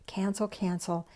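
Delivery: softly whispered cancel, cancel. Shown as a demonstration. Preacher guiding listeners to let go, whispered. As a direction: breathe the words out unvoiced. Letting go of old beliefs.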